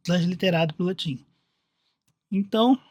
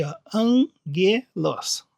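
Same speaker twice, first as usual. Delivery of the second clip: slowly shown; much slower than usual. Shown as a demonstration. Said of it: "bem escrito aqui pra vocês verem".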